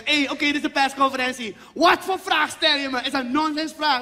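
Surinamese coach at press. Retold or imitated. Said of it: "zo bij die persconferentie gewoon lekker".

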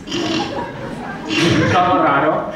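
tacos con voz de niño pijo. Acted. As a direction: suelta palabrotas con acento pijo. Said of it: "con esta voz de pijo". (voz de pijo diciendo tacos)

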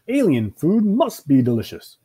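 excited character voice; eager. Acted. Dog eagerly expecting a treat.

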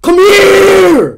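full-throated high shout. Real, not acted. Gamer calls a teammate over, shouting. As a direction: yell it across the court. Calling teammate mid-game.

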